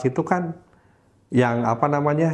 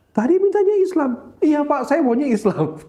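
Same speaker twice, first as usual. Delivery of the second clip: much higher, louder, disbelieving; teacher baffled by the boy's answer; high incredulous teacher; 3 dB louder than usual. Retold or imitated. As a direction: squeak out the teacher's confusion. Teacher confused, boy insists.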